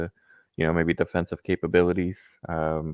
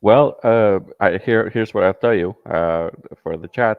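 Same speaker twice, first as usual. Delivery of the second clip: in-character persona; 2 semitones higher, 7 dB louder than usual. Acted. Caller back in character for the chat, playing the persona. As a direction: slip back into the character, loudly. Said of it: "He got back into character".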